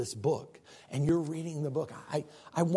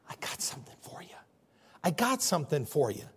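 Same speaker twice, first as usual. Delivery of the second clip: compassionate Savior. Retold or imitated. Loving Savior offering a gift, hushed whisper. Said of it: "compassionate, loving Savior going".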